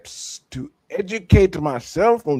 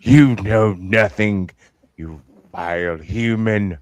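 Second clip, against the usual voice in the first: lower, hammed-up theatrical scorn; mock dramatic scorn; 5 semitones lower than usual. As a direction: sneer it like a stage villain. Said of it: "read the rest of it like that".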